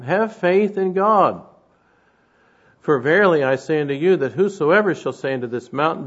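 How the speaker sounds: loud, rising pulpit reading of the verses; forceful scripture reading. Real, not acted. Preacher reads Jesus' words on faith to his church, forceful and loud.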